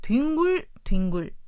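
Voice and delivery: teacher modelling 뒹굴뒹굴 for learners; Korean word demo. Shown as a demonstration. Teacher models the word for radio learners, clearly. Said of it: "これは、ゴロゴロという意味".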